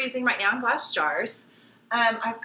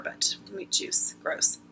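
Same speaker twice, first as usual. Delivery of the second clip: disgusted; 9 semitones higher, 3 dB quieter, slower than usual. Real, not acted. Disgust at meat juice.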